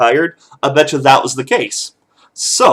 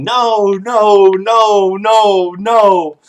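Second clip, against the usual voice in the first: high mock screaming no's, somewhat louder; toddler screaming no; 7 semitones higher, 4 dB louder, much slower than usual. Toddler still protesting bedtime, high mock scream chant. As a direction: copy a stubborn toddler's chant of refusal. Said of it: "But he's still screaming".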